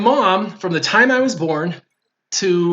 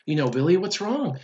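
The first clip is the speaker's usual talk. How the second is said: gentle, quieter motherly check-in; concerned mom; 6 dB quieter, slower than usual. Retold or imitated. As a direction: softly imitate a worried mother asking. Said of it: "mom could see I was razzed up".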